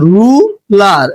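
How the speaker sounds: রু and লার said apart, with a pause; teacher breaking the word into রু, লার; split into syllables. Shown as a demonstration. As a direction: sound out রু with a short "u", then লার separately. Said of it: "রস্যকার উচ্চারিত হয়েছে".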